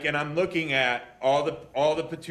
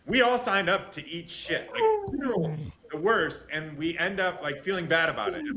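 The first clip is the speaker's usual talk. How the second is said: upset; 3 semitones higher than usual. Real, not acted. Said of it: "That's where I get upset".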